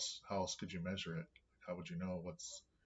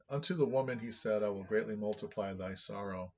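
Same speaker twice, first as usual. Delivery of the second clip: louder, measured Bible reading; scripture reading; 5 dB louder than usual. Acted. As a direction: read the verse out with emphasis. Reads scripture aloud.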